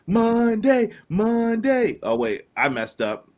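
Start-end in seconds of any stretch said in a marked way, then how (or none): 0.1-2.0 booming high announcer hype voice; monster truck announcer. Acted. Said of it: "Monster truck announcer voice".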